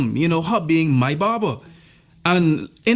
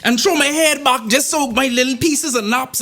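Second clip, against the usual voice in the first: slow dramatic telling; 6 semitones higher, slower than usual. Acted. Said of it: "dramatic action-movie comparison".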